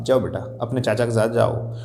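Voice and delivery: low, tender coaxing; affectionate. Acted. Father sends his son along with his uncle, affectionately. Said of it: "मैंने प्रेम पूर्वक".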